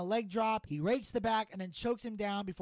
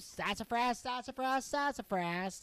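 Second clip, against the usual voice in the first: put-on old-timer saying; 4 semitones higher, slower than usual. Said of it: "old sayings".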